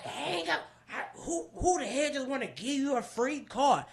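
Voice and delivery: lightly imitated incredulous husband; high-pitched scoffing in a retold argument; mock arguing husband. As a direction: argue back as a disbelieving spouse. Acts out husband arguing with her.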